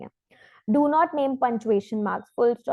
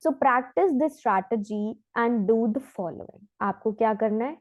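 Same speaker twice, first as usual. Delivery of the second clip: ordinary delivery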